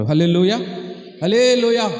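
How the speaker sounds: ringing hallelujah called out; loud hallelujah. Real, not acted. Preacher rouses the congregation with a loud hallelujah. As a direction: lift the room with it.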